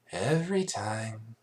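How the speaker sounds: slow, weary sigh; sighing annoyance. Acted. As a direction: sigh it out in mild exasperation. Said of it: "she sighed".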